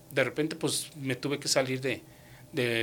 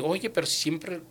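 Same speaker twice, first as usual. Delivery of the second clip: higher-pitched, mildly indignant self-defence; retold annoyed protest; 4 semitones higher than usual. Retelling his protest to the woman who fired him, mildly annoyed. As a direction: list your chores in mild protest. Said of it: "yo molesto en ese rato".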